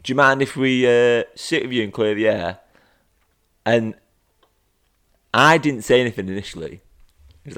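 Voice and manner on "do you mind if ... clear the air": sarcastic mock. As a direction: throw their words back at them. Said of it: "looked up as if to say".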